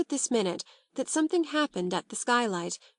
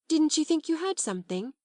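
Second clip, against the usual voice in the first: higher, alert question; wary question; 8 semitones higher than usual. A narrator's reading. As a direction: ask with sudden alarm. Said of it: "said Sarah".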